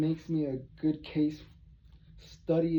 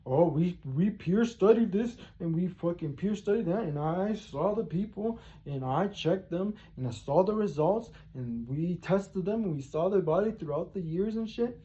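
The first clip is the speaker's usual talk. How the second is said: higher, pompous mock-professor voice; higher, sneering imitation of professors boasting about peer studies; 3 semitones higher than usual. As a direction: parody smug academics listing their studies. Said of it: "they proved it".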